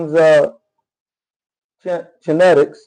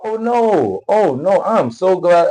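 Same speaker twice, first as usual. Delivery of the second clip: mock relieved gushing; 2 semitones higher, slower than usual. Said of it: "It's like".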